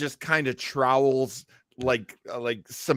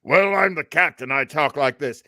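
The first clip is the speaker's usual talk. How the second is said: lightly voiced gruff captain, a bit louder; mock captain; 4 dB louder than usual. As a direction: play the captain as a broad stock type. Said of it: "My favorite is like".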